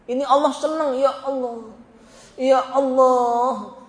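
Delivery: drawn-out sighing appeal to God; plaintive lament. Acted. Sufferer lamenting to God, drawn-out mock lament. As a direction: stretch it into a suffering plea, acted. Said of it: "ingin didengar keluh kesahnya".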